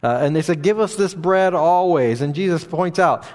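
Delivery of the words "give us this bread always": eager demand. Retold or imitated. Pastor voicing the crowd begging Jesus, eager and raised. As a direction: ask for it like a hungry crowd pressing Jesus.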